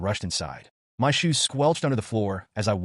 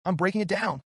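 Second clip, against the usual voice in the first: yelled threat; 9 semitones higher than usual. A narrator's reading. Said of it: "I yelled again".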